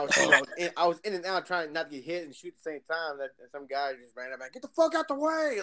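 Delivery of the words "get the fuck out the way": high mock yell at a teammate; retold yell. Random guy yelling at him in Halo, shouted high. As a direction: bark it like the guy who ran up.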